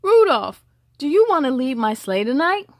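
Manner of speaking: calling the name out loud, then asking; a hint of Santa calling to Rudolph. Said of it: "He said".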